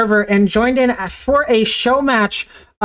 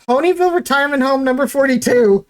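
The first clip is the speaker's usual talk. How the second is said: voice cracking; 3 semitones higher, faster than usual. Real, not acted. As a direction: voice cracks up mid-sentence, slightly rushed. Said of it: "Sorry, my voice just cracked there".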